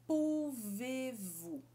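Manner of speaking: "Pouvez-vous" chewed out slowly; slow syllables. Shown as a demonstration. Teacher slowly chewing French syllables. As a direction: chew every syllable. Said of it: "dois sons também".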